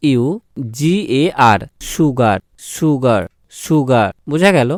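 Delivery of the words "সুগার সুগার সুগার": সুগার with the s said as sh, "shugar"; sh sound. Shown as a demonstration. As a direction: slowly model সুগার beginning with sh. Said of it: "তালিবস্বর উচ্চারণ শুধু এস দিয়ে". (সুগার-এর স-কে তালব্য শ করে ধীরে বলা)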